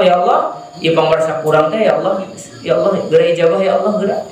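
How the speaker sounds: impatient demanding plea; arrogant prayer. Shown as a demonstration. Preacher mocks a proud worshipper's impatient prayer. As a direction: push God to hurry, without humility. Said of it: "tidak seperti yang".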